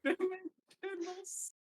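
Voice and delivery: high, slow Dimensional soup; high drawn-out. Pretend. Savoring the misheard spell.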